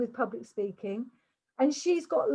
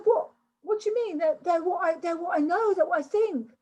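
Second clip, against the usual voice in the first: higher-pitched, stumbling imitation of disbelief; baffled protest; 5 semitones higher than usual. Coach imitates her fourteen-year-old client answering back, baffled protest. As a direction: mimic a confused teenager faltering through an objection. Retold girl reacts, baffled.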